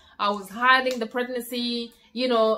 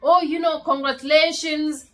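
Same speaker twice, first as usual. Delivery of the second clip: higher, happy retold cheer; lightly acted excitement, pitched up; excited congratulations; 4 semitones higher, 4 dB louder than usual. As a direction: imitate a delighted partner congratulating. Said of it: "He was very excited".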